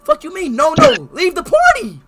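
angry. Real, not acted. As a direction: order him out, furious. Ordering intruder out.

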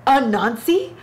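"Anansi?" asked with a rising, incredulous lift; questioning. Real, not acted. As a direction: raise the question mark on Anansi. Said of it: "First of all, Anansi".

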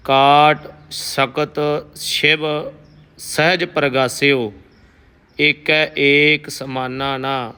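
slow, measured Gurbani reading; shabad recitation. Teacher reciting Kabir's shabad for the sangat, slow and careful. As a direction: read each word deliberately and reverently.

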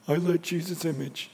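a light smug boasting voice, quick; mock the self-righteous braggart; mock boaster. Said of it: "I don't want him boasting and going".

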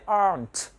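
"aren't" in one gliding syllable, "ahnt"; glided up. Shown as a demonstration. Teacher models "aren't" for students, glided together. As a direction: glide through "aren't" to the final T. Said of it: "Nhưng phải uốn lướt lên".

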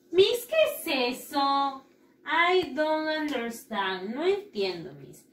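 lightly acted confused child, slow and drawn out; puzzled pupil. Pupil asking Miss what that is, puzzled. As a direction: play a pupil who is lost.

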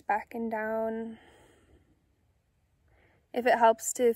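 calm, unhurried meditation guide with long pauses; soothing, measured guided-meditation delivery. Acted. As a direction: gently guide listeners inward, leaving space after each phrase.

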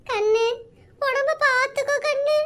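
tearful, slow farewell, overacted sobbing; milk the goodbye with fake tears; hammed-up crying father. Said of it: "உங்க நடிப்பை என்னால பார்க்க முடியலடா".

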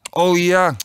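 high, drawn-out realisation; dismayed cry. A narrator's reading. Contestant realising his mistake, mildly aghast. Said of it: "riep ik ontzet".

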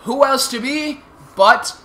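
slow, loud grandiose villain declaration; grand villain announcement. Acted. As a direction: proclaim yourself the almighty ruler. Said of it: "the almighty and powerful Megatron".

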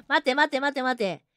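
shouting after the departing senpai; calling after. Real, not acted. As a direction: call out to stop him leaving. Calling after a leaving character.

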